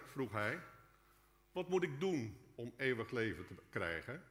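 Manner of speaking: ordinary delivery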